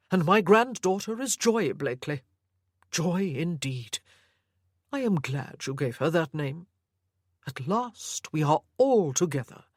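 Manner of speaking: a hint of a doting, controlling grandfather; obsessive old grandfather. Sir Lovett speaks to Anna.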